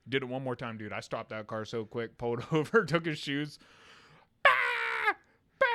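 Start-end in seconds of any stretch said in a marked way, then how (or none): 4.4-5.7 short mock bawl; brief imitated wail; imitated kid scream. Nephew screaming over his taken shoes, mock bawling. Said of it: "All the way to my mom's was he screaming".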